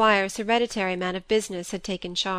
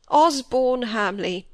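tender grief; 3 semitones higher, 4 dB louder, slower than usual. A narrator's reading. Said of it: "squire repeats the name".

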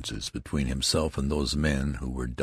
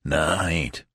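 a touch of indignation; lightly indignant soldier. Acted. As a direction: snap back, offended. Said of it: "exclaimed the loud soldier indignantly".

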